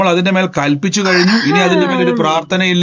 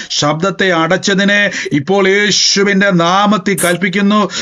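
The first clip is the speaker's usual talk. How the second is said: deliverance prayer; 3 semitones higher than usual. Acted. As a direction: rebuke the spirit with rising force.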